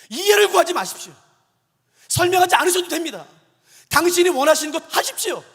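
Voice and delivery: loud, high, emphatic vow to God; impassioned prayer, punched phrase by phrase; fervent retold prayer. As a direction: cry out each plea with full conviction. Prayer of resolve, rising to fervour.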